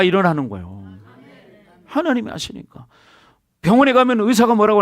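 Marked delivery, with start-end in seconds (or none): 1.9-2.9 하나님이 하시니까 repeated softer, falling at the end; quiet emphatic repeat; soft echo. Shown as a demonstration. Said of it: "보세요".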